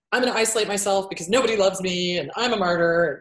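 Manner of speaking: mopey voice of a martyr wallowing; self-pitying martyr. Retold or imitated. Therapist imitating a hermit borderline, self-pitying. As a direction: sigh it out as if nobody loves you. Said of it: "The hermits are more like the".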